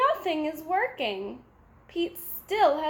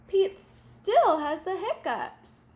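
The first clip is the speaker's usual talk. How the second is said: usual speaking voice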